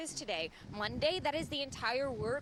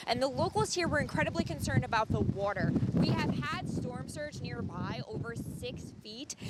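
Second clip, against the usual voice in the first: raised voice over gusting wind; shouting over wind. Real, not acted. Reporter live in hurricane winds.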